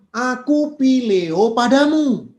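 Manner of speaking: loud, slow, impassioned Peter; fervent declaration. Acted. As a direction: cry out the love, drawn out and loud. Peter answers Jesus fervently. (seruan lantang dan lambat penuh semangat)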